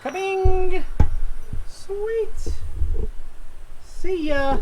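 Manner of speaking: high, gleeful whoops; excited. Real, not acted. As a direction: cheer as the axle drops. Axle drops off the lift.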